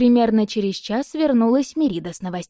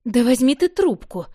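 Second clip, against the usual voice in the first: higher, louder shout over ringing; loud demand; 5 semitones higher, 5 dB louder than usual. Acted. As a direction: yell to be heard over a bell. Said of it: "громко потребовала Мерида". (громкое требование, выше и громче)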